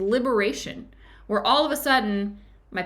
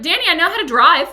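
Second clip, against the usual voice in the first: retold angry retort, higher, louder and fast; annoyed friend; 8 semitones higher, 9 dB louder, faster than usual. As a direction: snap back like an irritated driver. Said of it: "And he gets mad at me".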